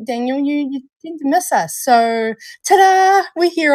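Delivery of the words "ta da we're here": higher, louder showman ta-da; playful ta-da. Real, not acted. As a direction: announce it with flair. Playful announcement.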